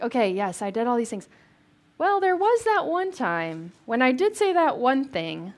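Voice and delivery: grudging admission, rising on the afterthought; mock confessional aside. Paul admitting that one thing, as a mock sheepish aside. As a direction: own up as if on the side. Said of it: "they capture the whisper on the side".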